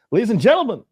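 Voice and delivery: high announcer-style Walken with pauses; Walken impression. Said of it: "Give me your best Walken".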